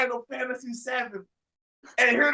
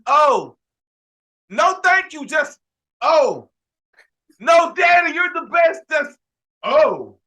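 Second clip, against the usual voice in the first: put-on higher, louder, bouncy kid voice; mock kid; 3 semitones higher, 5 dB louder, slower than usual. Kid thanking dad after a tantrum, lightly voiced child. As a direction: play the child, suddenly all cheery. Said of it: "For Jim just to say".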